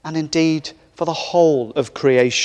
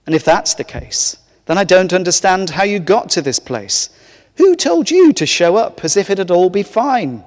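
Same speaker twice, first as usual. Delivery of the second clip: stern angel; 4 semitones higher than usual. Acted. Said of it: "the angel said sternly".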